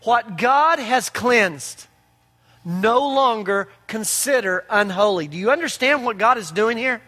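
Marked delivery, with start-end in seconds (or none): 0.0-5.3 slow voice of God. Acted. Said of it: "the voice said to him".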